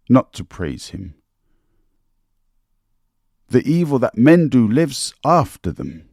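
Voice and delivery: lightly acted funeral oration, measured with long pauses; Mark Antony oration. Speaker recites a famous speech to refresh listeners' minds, lightly declaimed. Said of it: "that famous speech by Mark Antony".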